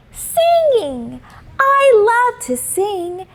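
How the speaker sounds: light up with the idea; girl thrilled to discover she loves singing; excited young girl. A narrator's reading. Simone delighted by her idea.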